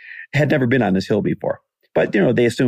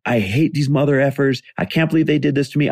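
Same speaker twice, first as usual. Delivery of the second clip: mildly hammed-up fit, pitch raised; indignant, higher-pitched retold complaint; retold tantrum; 5 semitones higher than usual. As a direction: act out a small tantrum about your friends. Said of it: "really throwing a fit".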